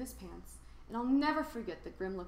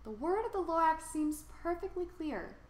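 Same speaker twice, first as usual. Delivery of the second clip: earnest; 7 semitones higher than usual. A narrator's reading. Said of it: "says the Onceler".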